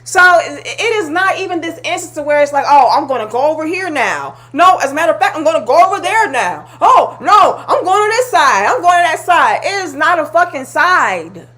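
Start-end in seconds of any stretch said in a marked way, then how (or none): 2.7-9.6 higher, ditzy mock voice switching sides; mock flip-flopper. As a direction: parody someone changing sides on a whim. Mocking women who switch sides.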